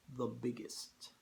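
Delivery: put-on slow, soft Russian-accented general; hushed reveal. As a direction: draw it out quietly. General's sly reveal, acted.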